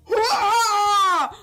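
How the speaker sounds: high loud cartoon hurrah; mock cheer. Gamer voicing her unit's battle cheer, loud and high. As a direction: shout it like a cheering little hero.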